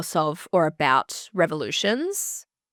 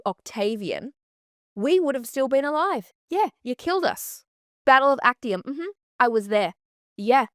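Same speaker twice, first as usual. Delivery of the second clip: Cleopatra telling Caesar off; 3 semitones higher than usual. Pretend. Imagined Cleopatra berating Caesar at dinner, mock furious rant. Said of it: "her turn around and be like".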